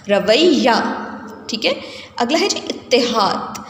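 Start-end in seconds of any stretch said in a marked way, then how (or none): 0.1-0.7 رویہ with a held double y, "ra-WAY-ya"; doubled consonant. Shown as a demonstration. Teacher models the word for students, رویہ with doubled y. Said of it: "یہ پہ شد ہے". 2.7-3.6 اتحاد slowly as "it-te-HAAD", with an i after the double t; correct doubled consonant. Shown as a demonstration. Teacher introduces the next word, اتحاد as "it-te-haad". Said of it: "تے پر علامت شد ہے".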